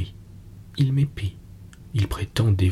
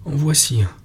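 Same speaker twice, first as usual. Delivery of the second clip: exclaiming; 4 semitones higher than usual. A narrator's reading. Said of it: "elle s'écria".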